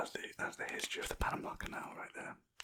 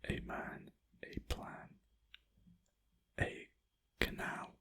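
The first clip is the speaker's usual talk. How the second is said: lightly hammed epic trailer read, whispered; movie trailer voice; 6 dB louder than usual. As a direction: sell it like a blockbuster trailer. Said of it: "Michael Bay style trailer".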